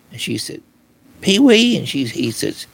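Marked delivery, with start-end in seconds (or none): 1.2-1.8 surprised question. Retold or imitated. Wife realizes the spirit's name.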